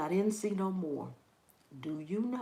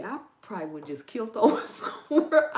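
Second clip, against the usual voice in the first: laughing; 7 dB louder than usual. Real, not acted. Laughing at her own fear.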